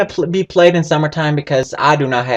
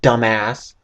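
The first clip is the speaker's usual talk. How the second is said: mock snarky reply; 5 dB louder, slower than usual. Gamer answering an imagined lost stranger, mock snark. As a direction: answer as if it were obvious. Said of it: "you can just be like".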